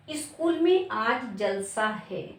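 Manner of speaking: जलसा said joined, with no break inside; जलसा as one word. Shown as a demonstration. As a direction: say जलसा as a single word, slowly. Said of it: "जलसा हमने एक साथ लिखा". (जलसा एक साथ, बिना रुके)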